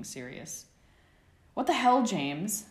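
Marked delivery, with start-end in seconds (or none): 1.5-2.7 high, loud angry outburst; startled awake and furious, yell it. A narrator's reading. Sirius hit by a pillow in bed, angry loud yell. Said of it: "He sounded angry".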